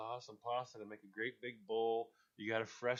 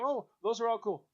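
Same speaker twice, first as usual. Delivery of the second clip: mock delight; 10 semitones higher, 5 dB louder than usual. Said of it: "you go".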